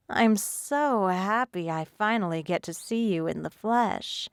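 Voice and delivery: lightly purring cat-like mermaid. Acted. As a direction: purr it like a pleased cat. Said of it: "reminding me of a purring cat".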